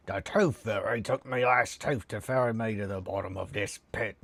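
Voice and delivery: rough Cockney orc growl. Acted. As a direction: snarl it like a goblin orc. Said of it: "a real proper orc voice".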